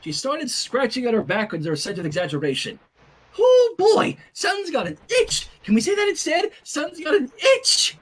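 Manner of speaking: high, loud sing-song coaxing; exaggerated baby-talk coaxing; coaxing a toddler. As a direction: sweet-talk the baby into a new word.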